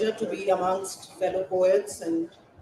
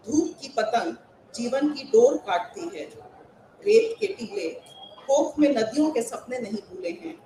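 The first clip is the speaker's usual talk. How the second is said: हिंदी कविता पाठ; Hindi poem recitation; 2 semitones higher, much faster than usual. Acted. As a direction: recite it to a hall of fellow poets.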